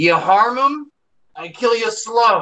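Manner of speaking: very high, slow, deliberate yelling. Answering a captor in character, yelling back. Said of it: "I yell back".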